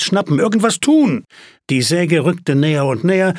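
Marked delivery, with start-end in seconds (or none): 0.0-1.2 high, urgent mock shout; mild retold yell. A narrator's reading. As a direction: imitate an upset shout, pitch leaping up. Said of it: "Emily schrie mich an". (nachgeahmtes, hohes Anschreien)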